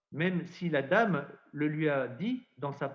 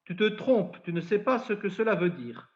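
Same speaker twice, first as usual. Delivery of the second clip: higher-pitched retold reproach; mildly shocked rebuke; 4 semitones higher than usual. Shocked parish priest contradicting young Bernadette, mild higher-pitched rebuke. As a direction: correct her, a touch shocked. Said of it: "il est peut-être un peu choqué".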